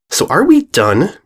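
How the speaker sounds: slow, impatient filly voice. Acted. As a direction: show her the door. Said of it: "Diamond asked".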